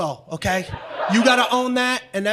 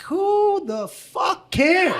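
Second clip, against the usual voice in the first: exasperated; 6 semitones higher, much slower than usual. Retold or imitated. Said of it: "I was like".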